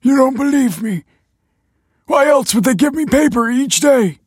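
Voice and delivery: high, loud, agitated shouting; incredulous outburst. A narrator's reading. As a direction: insist at the top of your voice. Disbelieved father argues back.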